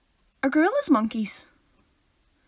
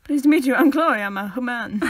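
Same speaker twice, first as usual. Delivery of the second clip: mock formal introduction; 3 dB louder than usual. Chloe introducing herself as a human, mock formal. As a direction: introduce yourself with comic ceremony.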